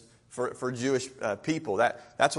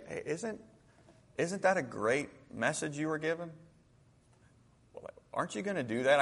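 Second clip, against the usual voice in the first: gentle counsel; 5 dB quieter than usual. Acted. Servant gently counsels angry master.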